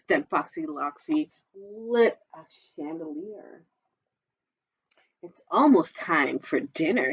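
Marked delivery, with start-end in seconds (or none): 5.2-7.1 purring fox. Acted. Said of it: "he purred".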